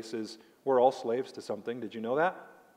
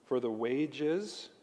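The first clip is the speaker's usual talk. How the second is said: slow quote; much slower than usual. Shown as a demonstration. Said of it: "let me break this down".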